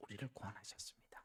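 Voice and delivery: hushed, fast, soft whisper.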